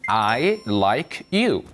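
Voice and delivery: very slow, teacher's example; slow model English. Shown as a demonstration. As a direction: spell it out slowly. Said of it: "다시요". (천천히 시범)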